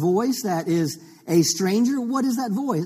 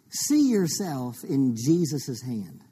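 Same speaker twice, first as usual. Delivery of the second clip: gentle guidance; 3 semitones lower, 3 dB quieter, slower than usual. Real, not acted. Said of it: "Just put your hand out like this".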